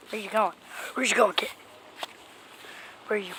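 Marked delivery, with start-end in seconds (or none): 0.1-1.5 softly whispered question to the cat. Real, not acted. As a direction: whisper it so the cat won't bolt.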